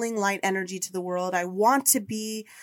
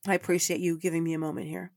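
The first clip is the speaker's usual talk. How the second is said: composing herself; 3 semitones lower, 4 dB quieter, faster than usual. Real, not acted. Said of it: "sorry, I just got a vision of her".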